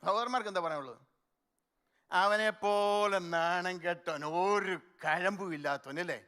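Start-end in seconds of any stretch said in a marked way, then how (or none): 2.1-6.2 lightly voiced scornful onlooker; ഹാസ്യമായി പരിഹസിക്കുന്ന സ്വരം; mocking scorn. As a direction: sneer at the man who cries, half in jest. Mimics what men say about criers.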